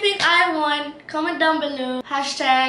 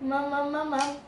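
mouth exercise. Shown as a demonstration. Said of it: "Can you mama that?".

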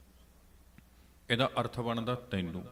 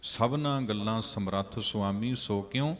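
fervent preaching; 4 dB louder than usual. Acted. Preacher urges congregation, louder.

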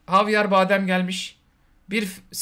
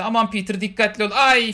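mock worried movie line, louder on the cry; Zendaya; 3 semitones higher, 5 dB louder than usual. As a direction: play a girl fretting, ending in a loud little "ay". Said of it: "filan dışında bir şey demiyor kızcağız".

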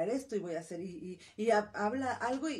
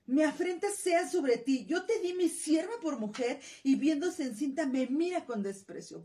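angry reproach; 5 semitones higher, 5 dB louder than usual. Acted. Sarai angrily blaming Abraham for Hagar's contempt. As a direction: throw the blame at him this time. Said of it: "le reclama, molesta y le dice".

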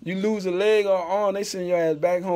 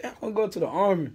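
fast, laughing imitation of son; mock son; faster than usual. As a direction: rattle off the kid's request. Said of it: "he was like".

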